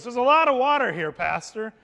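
imitating an eager teen nudging his pastor; eager excitement. Teen on a canoe trip urging his pastor, excitedly. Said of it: "There was an excitement and a passion".

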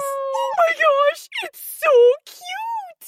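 gushing over cuteness. Acted. Knight finds a cute cub.

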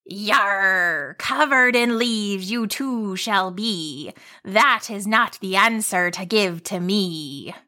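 slow rhyming riddle monster; grumbling leafy monster. Acted.

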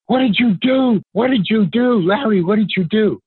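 mild mock yell. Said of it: "but he's yelling".

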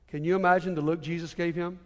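low, hushed telling of heartbreak; subdued, grave storytelling; somber. Real, not acted. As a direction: drop down soft and low, letting the sorrow sink in. Somber telling of Peter's shame.

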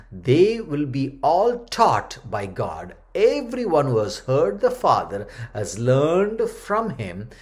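solemn, measured Bible reading; scripture reading. Acted. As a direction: read the passage as a preacher to the congregation. Preacher reads Bible passage aloud.

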